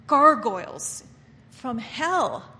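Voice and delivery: preacher's sharp rebuke; loud rebuke. Real, not acted. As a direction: punch gargoyles hard and loud.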